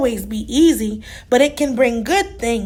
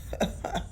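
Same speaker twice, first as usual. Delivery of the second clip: soft chuckle; 14 dB quieter than usual. Acted. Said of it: "Tortoise chuckled".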